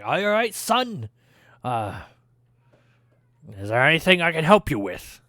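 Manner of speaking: lightly voiced friendly dwarf; dwarf smith greeting. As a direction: greet the customer as a hearty dwarf.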